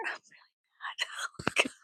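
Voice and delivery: high, slow whimpering mock cry, half laughing. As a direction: fake a whiny sob while giggling. Fake cry whisper with laugh.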